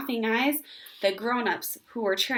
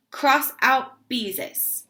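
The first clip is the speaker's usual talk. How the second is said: shouted; 4 semitones higher, 5 dB louder, much slower than usual. Acted. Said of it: "and shouted".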